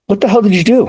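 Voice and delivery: high, incredulous demand; disbelieving buddy. Retold or imitated. Buddy bursting in, amazed at the change, high incredulous question. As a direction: ask it like you can't believe what happened.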